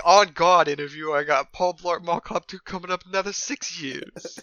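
loud start, mock rapper-wannabe boast; mock hip-hop Kevin James. Friend imitates actor in interview, mock rapper swagger. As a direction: play up the fake street swagger. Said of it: "He was like".

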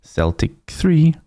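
reading scores like an eighties results announcer; lightly voiced results announcer; football results reader. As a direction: read it like the Saturday results. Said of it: "like I said, it's like".

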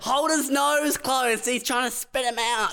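high, slow urgent command; urgent high order. Retold or imitated. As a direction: call it out slowly and urgently. Joining the mock emergency.

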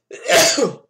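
sudden loud sneeze; a real sneeze bursting out. Real, not acted. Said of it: "excuse me, I'm sneezing".

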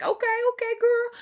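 high squeaky self-praise, soft; high mock praise. Telling herself she did well, high and soft. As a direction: cheer yourself on in a high little voice. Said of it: "I'm like".

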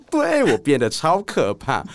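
deadpan menace. Retold or imitated. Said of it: "我就说".

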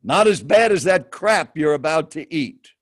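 lightly acted blunt put-down; stranger's blunt retort. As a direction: punch out the key words as a mildly confrontational stranger. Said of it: "in this exact tone of voice".

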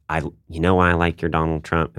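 lightly imitated Southern accent. Comedian quoting Southerners who come up to him, Southern accent. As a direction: put on a mild Southern accent. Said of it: "I'm doing a Southern accent".

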